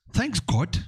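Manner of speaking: a professor mocking the boy's phrase; mocking echo. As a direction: scoff at the boy's words. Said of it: "So the guy goes".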